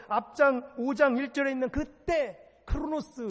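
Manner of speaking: high-pitched pulpit exhortation; rousing preaching. Real, not acted. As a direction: press each command on the congregation. Preaches at full force.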